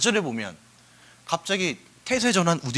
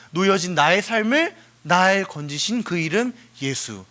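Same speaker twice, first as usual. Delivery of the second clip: lyric recitation. Acted. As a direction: recite like a poem, hushing at the very end. Recites worship song lyrics.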